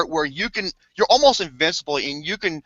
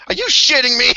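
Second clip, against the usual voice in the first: mock disbelief; 7 semitones higher, 5 dB louder than usual. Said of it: "I was like".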